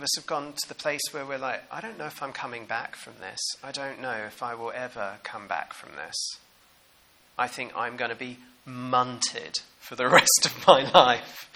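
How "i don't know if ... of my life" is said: hushed despair. Retold or imitated. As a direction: sound like you may never recover. Despairing inner voice quoted.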